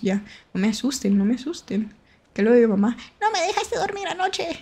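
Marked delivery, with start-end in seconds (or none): 3.2-4.6 high, soft mock mom complaining; imitating mom. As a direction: whine it like a tired mother. Quoting mom's complaint. (imitando a mamá quejándose, voz aguda y suave)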